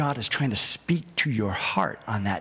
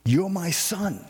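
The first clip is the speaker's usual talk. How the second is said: fatherly God; 5 semitones higher than usual. Acted. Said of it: "He said".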